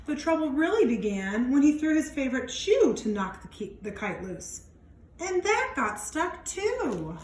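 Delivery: put-on lively read-aloud for young kids; expressive picture-book narration; storybook reading. A narrator's reading. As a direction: read it out like storytime for little ones. Reads picture book to children.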